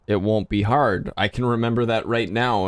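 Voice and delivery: a bit tipsy speech. Real, not acted. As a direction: talk like you've had a few drinks. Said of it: "and I'm drunk".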